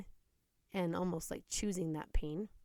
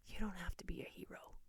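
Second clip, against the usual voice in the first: retold hushed whisper in the ear; soft unvoiced whisper, imitating the petitioner; 8 dB quieter than usual. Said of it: "whispering in my ear".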